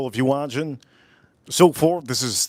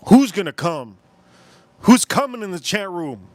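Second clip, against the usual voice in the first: louder, higher, playfully scandalized; mock outrage; 4 semitones higher, 5 dB louder than usual. Streamer playfully scolding chat over a crude comment, mock outrage. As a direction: act shocked at the comment.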